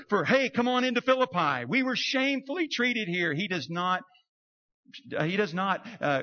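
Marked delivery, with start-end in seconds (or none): 0.2-1.6 high, louder cheery promo; tourism ad. Retold or imitated. Chamber of Commerce promoting Philippi, cheery. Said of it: "a Chamber of Commerce blurb".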